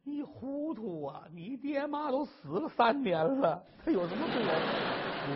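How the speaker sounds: a hint of a scolding wife; exasperated wife. Wife scolding her husband's silly guess, exasperated. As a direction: snap back at his foolish guess.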